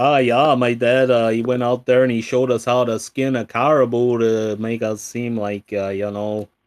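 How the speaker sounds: loud, terrible put-on Minnesota accent. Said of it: "What a terrible impression of".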